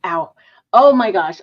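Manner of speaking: reacting to a burned tongue; pained ow after hot tea. Real, not acted. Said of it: "I just burned my tongue on my tea".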